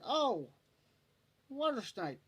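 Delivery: high startled yelp; imitating a friend's startled squeal; mock startled cry. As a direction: squeak it out like a scared buddy.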